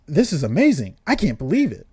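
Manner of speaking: excited, swooping disbelief; amazed. Acted. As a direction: gush in amazement. Amazed reaction to newly awakened power.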